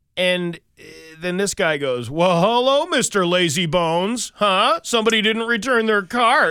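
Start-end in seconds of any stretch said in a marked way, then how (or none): 2.1-6.6 put-on, high, over-animated mocking taunt. Retelling how a man harassed another man who left his cart: retelling an animated taunt. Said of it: "he does this whole, like, animated".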